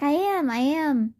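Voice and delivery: acted appeasing tone; placating apology. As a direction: insist you're sorry, slowly. Placating the offended Venom.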